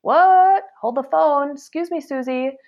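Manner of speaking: mock offense, caught off guard; shocked indignation. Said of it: "makes you feel like".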